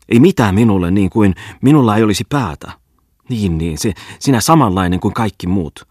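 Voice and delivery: high, loud shrill tirade; shrill outburst. A narrator's reading. Wife reproaching her silent husband, shrill outburst. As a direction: let it burst out shrilly, climbing to a peak at the end. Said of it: "purkautui Maissin kurkusta kimeästi".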